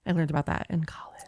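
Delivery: soft creak all through; vocal fry. Shown as a demonstration. Podcaster showing fry while recalling college, soft and creaky. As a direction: grind it out in a quiet fry. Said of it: "vocal fry".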